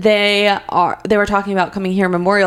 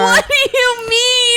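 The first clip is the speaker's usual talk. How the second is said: laughing; 13 semitones higher, slower than usual. Real, not acted. Laughing hard.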